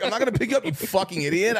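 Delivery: playfully yelling at Keith for being dramatic; mock outraged insult.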